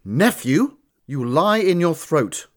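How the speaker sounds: a lightly voiced young noble, incredulous then scornful; indignant young man. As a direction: throw the insult back at him. Dennis insulted.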